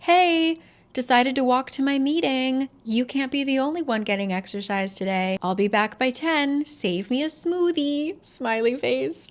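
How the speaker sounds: high, chirpy Catherine; breezy note voice. Retold or imitated. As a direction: read it like a carefree text.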